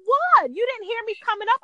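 high, fast innocent question; high mock surprise. Husband mocked by wife, high fast innocent question. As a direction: play innocent, high and quick. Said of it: "and he's like".

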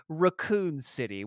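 "Raccoon City" with a British first vowel; British accent. Shown as a demonstration. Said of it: "pronounce it in a British accent".

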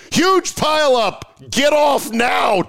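high urgent shouted warning; high-pitched alarmed shout. Pretend. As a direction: yell it like an emergency alert. Urgent imagined warning sign.

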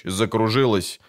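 usual speaking voice

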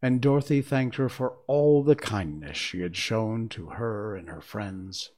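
measured, expressive storybook reading; story narration. A narrator's reading. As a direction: read the tale aloud, pausing between phrases. Reads the story aloud.

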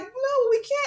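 high-pitched mock child protest; pleading kids. Kids refusing to leave the dog, high plea. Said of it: "And they're like".

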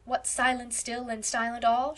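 playful mock-solemn quoting; lightly mocking recital; teasing. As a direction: poke fun at their gloom. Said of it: "she quoted teasingly".

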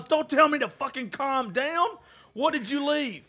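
high-pitched angry snap; reenacted fury. Told to calm down, he shouts back at his friends. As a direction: throw the words back at them. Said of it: "And I'm mad as fuck".

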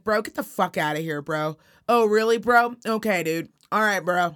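lightly voiced angry surfer-bro talk; a hint of a mad valley dude; mock mad surfer. Friend acting out an angry bro, a hint of surfer talk. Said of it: "if I'm mad at you and I'm like".

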